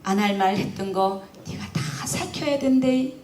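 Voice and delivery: put-on slow, high, trembling old mother's plea; a hint of a frail old mother, slow and high; tearful old mother. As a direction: speak as a dying mother asking forgiveness, nearly singing. Dying mother thanks daughter-in-law.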